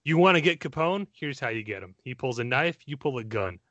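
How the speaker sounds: a lightly put-on Scottish Connery growl, barely off his own voice; hammed-up Scottish Malone speech, rising as the deal is pushed; bad Sean Connery impression. Podcast host reciting Connery's Chicago way speech in a weak Scottish accent. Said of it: "which I'm gonna horribly murder now".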